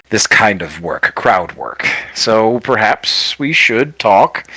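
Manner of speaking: lightly voiced formal showman; gracious but reserved circus boss, lightly played; circus leader, measured. Game master plays circus leader.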